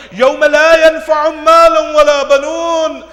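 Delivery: loud, high Arabic recitation; forceful, sustained proclamation; proclaimed verse. Real, not acted. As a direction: ring the verse out across the hall.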